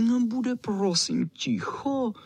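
high, prim voice of a pampered dog; fussy little dog. A narrator's reading. Čau Čau demands quiet again.

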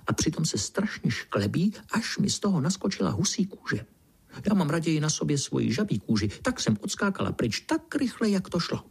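high, quick frog chatter; scared little frog; high frightened frog. A narrator's reading. Frog continues her tale.

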